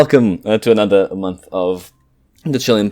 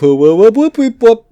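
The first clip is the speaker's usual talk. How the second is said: excited cheer; 13 semitones higher, 5 dB louder than usual. Real, not acted. Cheering the episode number.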